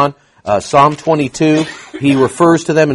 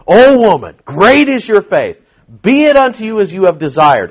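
proclaiming Jesus; 7 semitones higher, 5 dB louder than usual. Retold or imitated.

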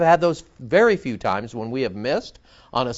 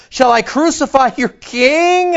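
Pilate's question; 12 semitones higher, 7 dB louder than usual. A narrator's reading. Pilate's question read aloud.

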